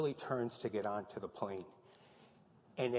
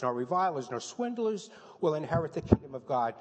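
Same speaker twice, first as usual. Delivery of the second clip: loud, emphatic preaching of the verse list; preacher proclaiming scripture at full force; forceful scripture reading; 3 dB louder than usual. Acted. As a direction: hammer each name on the list.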